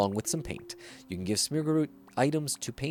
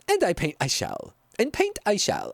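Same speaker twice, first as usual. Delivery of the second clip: Dracula; 8 semitones higher than usual. Pretend. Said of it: "I sound like I'm just doing Dracula".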